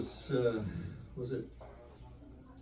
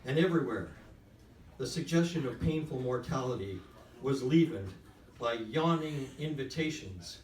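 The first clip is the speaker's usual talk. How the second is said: measured literary reading aloud, phrase by phrase; story reading. A narrator's reading. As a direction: read the prose deliberately, with weighty pauses. Reads own story aloud to audience.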